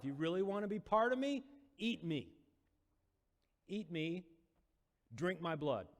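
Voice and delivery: high, loud, impassioned pleading; passionate Jesus. Retold or imitated. Jesus pleading with the crowd, high impassioned outcry. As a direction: build to a fervent outcry. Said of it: "Jesus gets more and more passionate".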